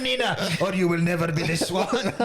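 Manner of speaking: commanding, lightly attempted French accent; Vincent Cassell. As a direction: issue an ultimatum in rough French-accented English. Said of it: "I think I can either".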